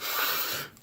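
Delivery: quiet voiceless puff of held tension; soft, anxious exhale; tense breath. Retold or imitated. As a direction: imitate a nervous table letting out breath. Party tense, retold.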